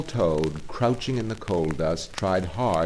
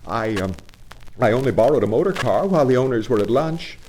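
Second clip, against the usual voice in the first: high, stammering excuse; embarrassed Toad; 5 semitones higher than usual. Acted. Toad excusing his car theft to the engine driver, flustered. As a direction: fumble for justification.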